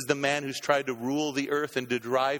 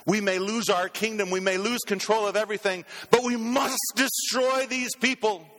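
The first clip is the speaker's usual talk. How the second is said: tyrant's vow; 5 semitones higher than usual. Retold or imitated. Preacher voices the Antichrist vowing to destroy believers, rising rant. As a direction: ham up a fanatical tyrant building to a shout. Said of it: "And he, like Hitler, will say".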